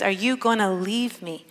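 quietly vulnerable question; Jesus. Retold or imitated. Jesus asks with his betrayer right there, quietly vulnerable. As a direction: ask it gently, letting the hurt show a little. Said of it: "a sign of vulnerability".

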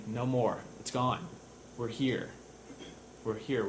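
gentle reassurance. Acted. God wiping tears away, gentle reassurance. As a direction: soothe someone who has been crying. Voicing God comforting the crying.

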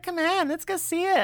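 put-on high, coaxing girlfriend voice; urging him along; girlfriend impression. Girlfriend begging Mike to see the meteor, high. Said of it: "She's like".

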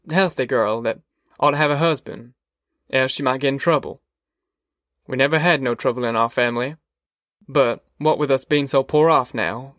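a hint of a worried country father; lightly voiced worried neighbour. Wainwright raising fears for his daughter with Ma, lightly voiced worry.

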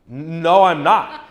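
loud firm no with a laugh. Retold or imitated. Full-on argument with doctor.

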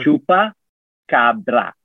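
very slow, each syllable stretched; over enunciating. Shown as a demonstration. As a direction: spell it out syllable by syllable. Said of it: "Let me say it slowly".

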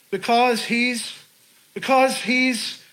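searching for words. Retold or imitated. Student struggles to tell her professor why, mock flustered. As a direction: grope for an answer, breaking off mid-sentence.

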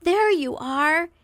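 glad, lingering "There you are" with a lift on "There"; warm greeting. Shown as a demonstration. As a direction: greet them as if delighted to see them. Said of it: "our opening in the conversation".

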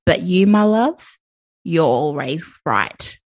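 hammed-up broad Aussie accent; very Australian accent. Co-host delivers a pick-up line in character, very Australian accent. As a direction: play a sleazy Aussie old man, accent laid on thick. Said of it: "in a very Australian accent".

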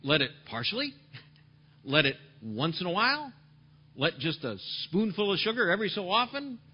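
playful teasing questions; preacher mocking half-hearted readings of the verse; mock alternatives. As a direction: toss off the wrong versions lightly. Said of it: "Did he say".

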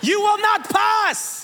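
slow, high, hammed-up proclamation; mock-epic beast voice; menacing beast guardian. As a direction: bar the way with drawn-out bombast. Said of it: "They're like".

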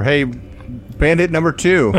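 mock call. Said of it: "You're like".

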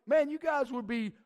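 playful sarcastic paraphrase. Retold or imitated. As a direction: sneer the thanks like a backhanded compliment. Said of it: "it's really sarcastic".

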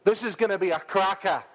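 punchy, rousing delivery; with a bit of gusto. Shown as a demonstration. Preacher to the congregation, with gusto. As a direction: say it like you mean it. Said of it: "Say it with a bit of gusto".

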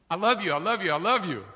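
loud repeated I love you, brushing her off; loud husband. Retold or imitated. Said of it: "And he says".

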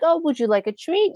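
high cooing voice for a cute dog; cooing baby talk to a dog. Retold or imitated. People cooing high at a cute dog at the expo. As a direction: coo up high at the puppy. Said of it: "we'll be like".

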